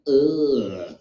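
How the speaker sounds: low "ugh" of distaste; disgusted groan. Retold or imitated. Woman seeing a man crying in the bread aisle, disgusted groan. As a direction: imitate a shopper's revolted groan. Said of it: "She went like this, she went".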